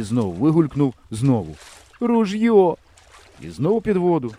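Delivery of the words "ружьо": high, loud gurgled cry in a different voice; spluttered cry. A narrator's reading. The hunter surfacing again for his gun, high and loud. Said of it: "булькнув він".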